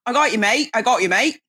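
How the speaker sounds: demonstrating Cockney for a learner; Cockney accent. Shown as a demonstration. Guest correcting the host's attempt, model Cockney accent. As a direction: say it as a Cockney would. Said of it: "no, they wouldn't say that".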